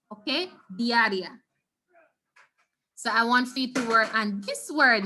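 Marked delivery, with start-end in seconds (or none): 0.8-1.4 "Diarrhea" with a long stressed I, dee-ah-REE-ah. Shown as a demonstration. Teacher repeats "Diarrhea" for class, stressed I. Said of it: "the stress has to go right here, the long sound".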